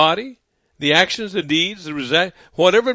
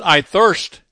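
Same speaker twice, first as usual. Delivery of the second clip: parched plea; 5 dB louder than usual. Acted. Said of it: "And he says, he's in the process of dying".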